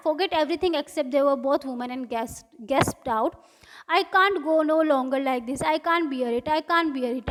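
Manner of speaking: slow, careful read-aloud of the English text; story reading. A narrator's reading. Teacher reading the story slowly to students. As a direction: read each line out slowly for the class.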